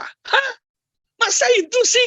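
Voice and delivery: very high-pitched imitation of a disbelieving wife; mock incredulity. Wife questions husband's caption, mock incredulous. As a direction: squeak out a comic, incredulous objection.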